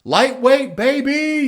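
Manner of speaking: huge high shout, full voice; gym yell. Retold or imitated. Ronnie Coleman yelling in the gym, a huge high shout. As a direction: bellow it like a bodybuilder psyching up under the bar. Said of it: "he used to yell out".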